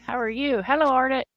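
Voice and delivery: breathless after running round the yard; panting between words; out of breath. Real, not acted. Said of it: "Sorry, I'm out of breath".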